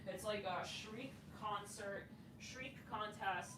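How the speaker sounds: very quiet, slow grumble to herself; exasperated aside. Real, not acted. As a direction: drop right down to a hushed, drawn-out aside. Fed up with noise outside.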